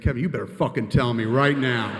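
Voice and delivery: loud, insistent mock order; imitating an exasperated boss; impatient demand. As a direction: demand it with mounting force. Acted quarrel, impatient boss demands answer.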